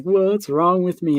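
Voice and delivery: a touch of slow, tearful pleading; half-acted tearful question; retold blubbering. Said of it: "I'm blubbering all over".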